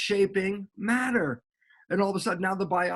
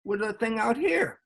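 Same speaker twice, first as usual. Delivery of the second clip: higher-pitched mock disbelief; incredulous question; 6 semitones higher than usual. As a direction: act out a puzzled objection, pitch up. Acts out his astonished questioning.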